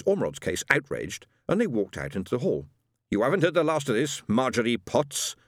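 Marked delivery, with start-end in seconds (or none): 3.1-5.3 hissed threat. Acted. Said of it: "hissed Missus Ormerod".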